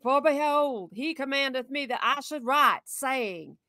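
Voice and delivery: lightly voiced old grandma, slow. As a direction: read it slowly, a hint of grandma. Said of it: "I haven't read grandma voice in a while".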